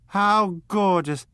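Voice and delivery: high, loud, drawn-out gush; rapturous, slow exclamation; gushing delight. A narrator's reading. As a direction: swoon over it, stretching the words. Daisy gushing over Chicago's grief.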